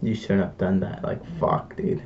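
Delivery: soft, self-scolding murmur; guilty inner voice. Retold or imitated. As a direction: scold yourself under your breath. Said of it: "there was this moment of, like".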